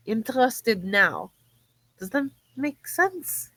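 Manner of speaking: tentative, halting, careful phrasing; Maya, hesitant newcomer. Acted. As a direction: pick your words with long pauses. Player voices French Maya.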